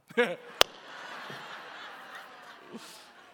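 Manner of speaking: breathy, drawn-out laugh. Real, not acted. Pastor laughing at his own aside about a rented movie, laugh. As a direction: laugh it out without voice.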